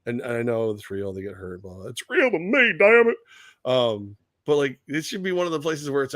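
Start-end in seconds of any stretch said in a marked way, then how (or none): 1.9-3.2 high, loud mock outburst; impassioned fan. Wrestling fan insisting it is real, mock impassioned. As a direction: protest it like a hurt true believer.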